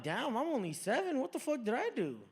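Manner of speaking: lightly voiced bewildered kid. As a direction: whine it like a seven-year-old. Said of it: "I'm like".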